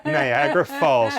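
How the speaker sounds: "Niagara Falls" sung out high; high teasing exclamation; teasing call. Real, not acted. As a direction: tease her tears with a high "Niagara".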